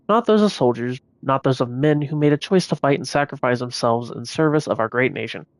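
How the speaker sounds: breathless, running out of air; short of breath. Real, not acted. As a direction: read while winded and short of breath. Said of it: "I'm short of breath right now".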